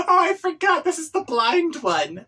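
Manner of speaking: giggling through the line; laughing. Real, not acted. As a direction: break up while saying it. Reader cracks up mid-line.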